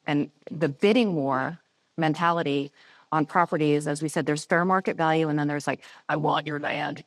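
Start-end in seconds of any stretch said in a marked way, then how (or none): 6.1-7.0 lightly voiced greedy monster; a hint of a hungry puppet monster growl; Cookie Monster voice. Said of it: "in the Cookie Monster voice or whatever".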